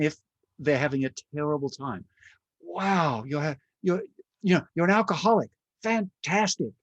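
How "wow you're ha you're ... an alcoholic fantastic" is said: mock delight. Voicing delighted reaction to client.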